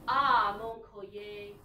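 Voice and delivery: loud gasp of discovery on Ah; sudden realization. Shown as a demonstration. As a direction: exclaim it like a new discovery. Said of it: "Can you go from the first one?".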